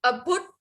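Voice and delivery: अभुट cut off on a hard half ट; half retroflex t. Shown as a demonstration. Teacher introducing a new word, careful pronunciation. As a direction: stop अभुट on the ट, no vowel after. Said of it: "उसको half ही pronounce करना".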